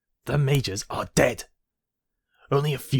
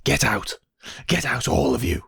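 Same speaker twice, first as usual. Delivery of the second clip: angry dismissal. Acted. Emperor throwing the council out, angry shout. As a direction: throw them all out.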